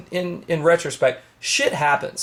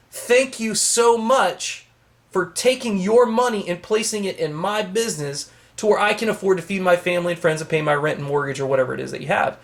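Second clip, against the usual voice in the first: heartfelt thanks. Shown as a demonstration.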